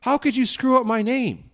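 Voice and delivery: hammed-up offended complaint; mock outrage. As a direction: pretend to scold someone who botched an easy name. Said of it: "it's like".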